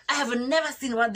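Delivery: mock-exasperated outburst; imitated exasperation. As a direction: repeat it as if appalled. Soldier appalled, acted.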